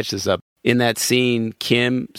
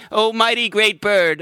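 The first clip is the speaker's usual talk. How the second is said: mock reverent address; 4 semitones higher, slower than usual. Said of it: "what was it that you asked me to, to say every time".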